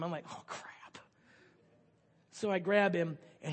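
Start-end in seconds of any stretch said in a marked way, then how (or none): 0.3-1.0 whispered, deflated aside; dismayed. Retold or imitated. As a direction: let it out under the breath in mock dismay. Acted dismay at being handed kid.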